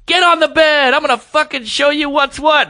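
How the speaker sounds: high, intense mock command from the woman; angry demand. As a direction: bark it out like she's about to chew him out. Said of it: "And she's like".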